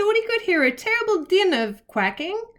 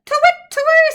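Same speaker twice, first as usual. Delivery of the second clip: high, louder "to wit, to woo"; owl duet; 6 dB louder than usual. A narrator's reading. Olive and Albert calling together at last, high owl call. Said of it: "said Olive and Albert".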